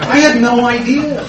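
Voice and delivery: slow, laughing disbelief; a rueful laugh through the words. Real, not acted. Laughing after the joke.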